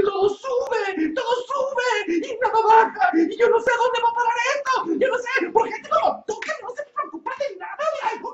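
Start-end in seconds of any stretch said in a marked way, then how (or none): 0.0-6.5 tearful rant. Acted. Inés rants tearfully.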